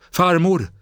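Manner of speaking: high, loud cry of joy; jubilant scream. Acted. Boy calls his grandmother with a jubilant shout. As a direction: shout her name in sheer relief. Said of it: "skrek pojken jublande".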